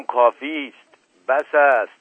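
fearsome roar. A narrator's reading. Uncle protesting the plot against him, loud furious roar. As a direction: roar it out in alarm. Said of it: "نعرهٔ ترسناکی کشید".

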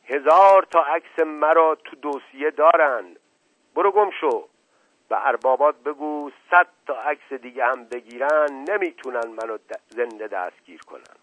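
roaring rage. Acted. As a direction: roar the threat at the photographer. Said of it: "نعره زد".

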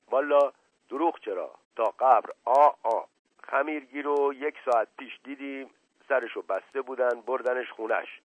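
lightly voiced evasive servant; a hint of a humble servant, hedging as he reports; reluctant servant. Voices the servant Mash Qasem.

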